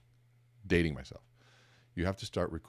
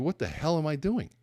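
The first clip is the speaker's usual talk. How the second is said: higher-pitched, retold alarm; alarmed self-question; 9 semitones higher than usual. Presenter catches hand near his ear, alarmed at himself. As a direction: catch yourself in mock horror.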